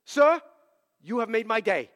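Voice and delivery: put-on accented caller laughing, "made" stressed; a lightly accented caller laughing with joy; plain "you have made my day" said through a laugh. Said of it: "I'll give him a little accent".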